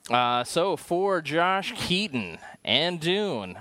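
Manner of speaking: slow, grand show sign-off; announcer sign-off. Acted. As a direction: announce the outro proudly.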